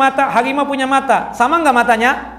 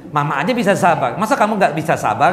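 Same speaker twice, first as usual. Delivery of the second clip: put-on mother scolding child; 4 semitones lower than usual. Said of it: "Seharusnya ibu mengatakan".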